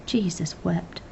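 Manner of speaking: father despairing of his son, soft and defeated; exasperated. Acted. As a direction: groan it into your hands. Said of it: "put his head in his hands".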